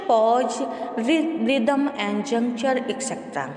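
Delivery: measured, deliberate textbook read-aloud; steady classroom reading voice. Acted. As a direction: read the passage out evenly for the class. Reads textbook passage aloud.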